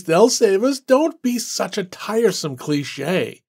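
loud, scornful mockery of her idea; sneering sarcasm. Randall mocking Annie's suggestion, loud sarcastic sneer.

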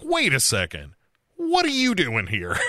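hammed-up "what's he doing here"; mock confrontation. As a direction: challenge him, playing up the suspicion. Retold confrontation of an unwelcome tag-along.

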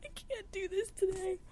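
laughing. Real, not acted. Giggling fit after the joke.

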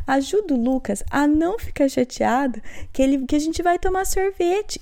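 earnest kid's prayer in an imitated sing-song list; praying little boy. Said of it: "meu do meio começa a orar".

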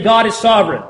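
firm, loud declaration; declaring aloud. Shown as a demonstration. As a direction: say it like you mean it. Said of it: "turn to your neighbor and say".

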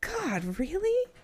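high, slow incredulous whine; exasperated disbelief. Real, not acted. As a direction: drag it out, eye-rolling. Reacts to being hurried to talk.

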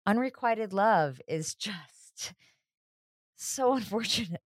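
halting, emotional delivery; slow down as real feeling creeps in; getting emotional. Real, not acted. Co-host moved by unrequited love, getting emotional. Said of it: "I'm getting emotional".

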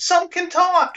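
high, slow cartoon bird retort. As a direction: squeak it out slowly to make the point. Bird voice argues back.

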